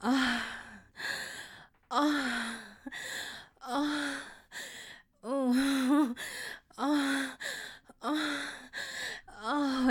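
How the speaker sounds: breathy moans. Acted. Moaning during sex.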